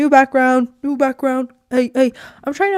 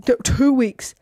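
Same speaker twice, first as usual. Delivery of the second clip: whispered aside; 3 semitones higher, slower than usual. Real, not acted.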